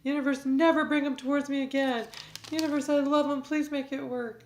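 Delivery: high, loud pleading plea; pleading to the universe. Acted.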